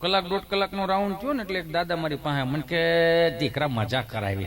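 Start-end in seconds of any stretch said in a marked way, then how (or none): 3.4-4.5 put-on low old villager's voice; old man voice. Old man thanking the young artist, low old voice. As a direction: lower it like an elderly grandfather.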